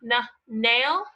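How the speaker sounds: the nnn of "nail" pulled out before the word; N sound stretched before nail. Shown as a demonstration. Teacher stretches the N in "nail" for kids. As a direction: hum nnn, then say "nail". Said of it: "Do you hear the N".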